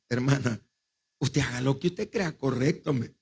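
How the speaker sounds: low, soft retold reply; resigned. Pastor leaving the abortion decision to the mother, resigned. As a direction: step back quietly from the argument.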